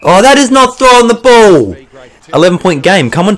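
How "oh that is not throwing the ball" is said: higher, louder protest at the call; indignant protest. Real, not acted. Gamer protesting the umpire's throwing call, indignant and louder. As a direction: argue with the umpire's decision.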